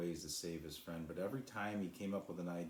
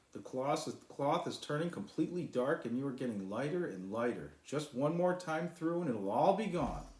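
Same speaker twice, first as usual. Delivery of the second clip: higher, louder rushing delight; excited; 8 semitones higher, 6 dB louder than usual. A narrator's reading. Sly telling the cloud she's getting lighter, high and thrilled. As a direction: gush with excitement.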